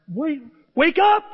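high, loud, drawn-out yell; slow, high wake-up call; acted rousing shout. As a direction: shout someone awake. Acts out rousing a patient.

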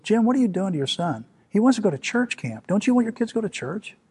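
pleading reproach, pitched high; high-pitched, indignant mock scolding; scolding grandmother. Grandmother confronts dad in retold quarrel.

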